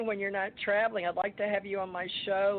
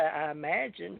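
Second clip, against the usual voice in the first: Kentucky drawl; 3 semitones lower, 3 dB quieter than usual. Retold or imitated. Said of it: "he'd say".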